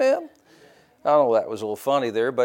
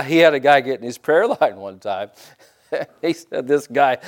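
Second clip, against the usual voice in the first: chuckling while telling the story; amused, laughing storyteller. Real, not acted. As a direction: let real laughs break into the telling. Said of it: "I'm laughing".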